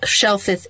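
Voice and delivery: shellfish slipping into "shellfith"; tongue-tied slip. Real, not acted. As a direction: trip on shellfish, ending it in a lisped th. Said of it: "I can't".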